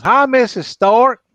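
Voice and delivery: slow, high, wide-mouthed frog greeting. Acted. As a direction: stretch every word like a big-mouthed frog. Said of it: "he goes".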